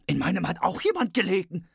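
high dwarf voice calling out. A narrator's reading. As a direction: call out as an upset dwarf. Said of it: "kamen angelaufen und riefen".

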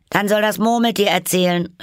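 high, loud shout; calling out. A narrator's reading. Hatter and Hare demand the Dormouse's story, shouting. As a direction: cry it out on a high pitch. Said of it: "riefen beide".

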